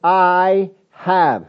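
"I" held long and firm; stress on I. Real, not acted. Preacher asks who is speaking, stress on I. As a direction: draw out "I", then land on have. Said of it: "look at what the voice says".

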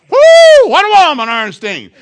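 high, loud hooting suitor; male eagle voice. Pretend. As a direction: whoop like a smitten bird. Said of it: "I'm gonna give the eagle".

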